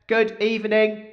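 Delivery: slow, stiff robot voice. Pretend. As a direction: speak like a clunky cleaning robot. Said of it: "your robot voice could do with some work".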